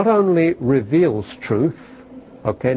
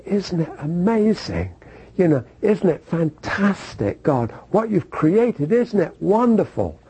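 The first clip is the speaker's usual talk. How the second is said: mock wonder; 4 semitones higher than usual. Imitating believer marveling at creation.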